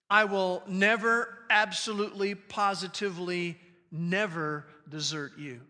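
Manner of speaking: "never, absolutely, positively, never" spaced out, each word hit; strong emphasis. Shown as a demonstration. Preacher stressing God's promise to the congregation, emphatic. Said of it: "adds an incredible emphasis to these phrases".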